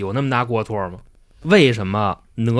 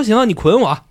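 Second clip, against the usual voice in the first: defiant monkey; 8 semitones higher than usual. Retold or imitated. Wukong defiant while tied up.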